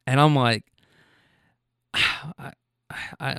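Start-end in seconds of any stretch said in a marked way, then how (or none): 1.9-2.5 soft, breathy sigh of doubt; hesitant sigh. Retold or imitated. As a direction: sigh quietly, unsure what to say. Hesitating while watching a stranger.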